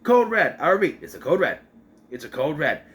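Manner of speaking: mock radio alarm. Retelling Charlotte's radio call.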